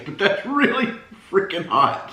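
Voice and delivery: breaking into laughter mid-sentence; laughing. Real, not acted. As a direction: straight face cracks, laugh through it. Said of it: "I'm trying to keep a straight face".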